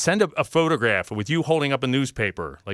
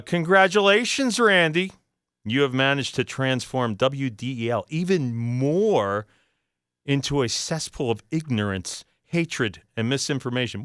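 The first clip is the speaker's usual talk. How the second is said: indignant reading. Shown as a demonstration. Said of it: "I'll just start from the beginning one more time".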